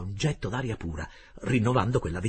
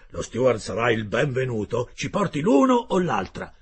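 gruff harpooner Ned; 7 dB louder than usual. Acted. Ned Land's voice in dialogue.

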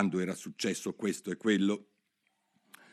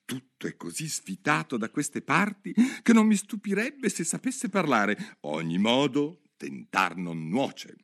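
lightly voiced girl, higher and musing; a curious girl talking to herself; Alice thinking aloud; 5 semitones higher than usual. Alice muses alone in the lake, light girl voice.

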